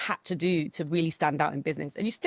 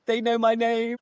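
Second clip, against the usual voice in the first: lightly voiced secret pride, raised pitch; a touch of gleeful boast, louder; mock starstruck delight; smiling inside; 5 semitones higher, 5 dB louder than usual. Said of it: "really smiling inside".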